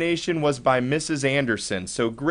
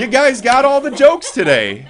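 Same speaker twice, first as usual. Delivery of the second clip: laughing; 9 semitones higher, 6 dB louder than usual. Real, not acted. Laughing at the joke.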